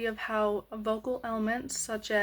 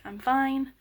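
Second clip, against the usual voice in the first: irritated; 4 semitones higher, 4 dB louder than usual. Shown as a demonstration. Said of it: "you're kind of irritated".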